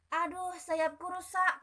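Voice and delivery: high, slow, pained cricket voice; a little cricket wailing over its broken wing; hurt cricket, slow and high; crying cricket. Acted. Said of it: "kata Jerabang".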